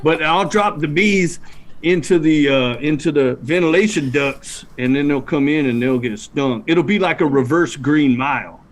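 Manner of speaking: talking with a cigarette in; cigarette in mouth. Real, not acted. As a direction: speak around a cigarette. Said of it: "I'm trying to talk and smoke at the same time".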